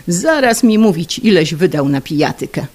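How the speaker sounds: scolding. Acted. Angry wife.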